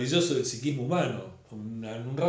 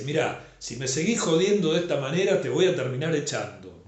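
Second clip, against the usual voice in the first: amenaza; 2 semitones higher, 4 dB louder than usual. Acted. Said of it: "No le dice".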